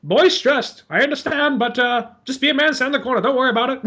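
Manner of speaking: hammed-up stiff-upper-lip British captain; old British boat captain calming a shaken soldier; British gentleman. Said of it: "so proper, so British, and so gentlemanly".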